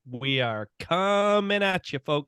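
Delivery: drawn-out, slow sign-on; slow announcer intro. Shown as a demonstration. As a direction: stretch it out like a radio host. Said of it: "It gets louder each time".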